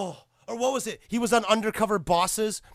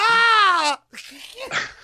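a loud, high cry of laughter; shrieking laugh; 13 semitones higher, 6 dB louder than usual. Real, not acted. Fan cracking up after mimicking the character. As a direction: laugh helplessly.

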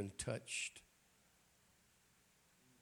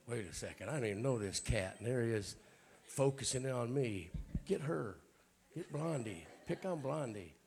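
mock indignant; 5 dB louder than usual. Preacher acting out a listener who feels picked on, mock indignant. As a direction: play the offended listener, hammed-up. Preacher voices his own imagined reaction.

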